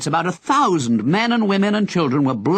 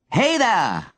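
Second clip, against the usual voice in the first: shout; 7 semitones higher than usual. Acted. Henry on the balcony calling down to an old man, shouting. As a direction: call out to the old man below. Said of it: "Henry shouted".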